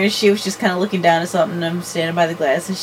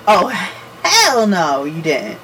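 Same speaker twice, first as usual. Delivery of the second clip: sassy; slower than usual. Retold or imitated.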